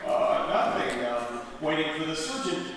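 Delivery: uneasy, subdued patient; hesitant patient. Acted. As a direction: answer warily, with ums. Uneasy patient answers the dude.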